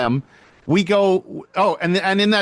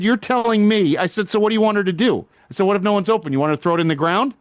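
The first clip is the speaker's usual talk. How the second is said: retold heated argument; 3 semitones higher, faster than usual. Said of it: "I started getting heated".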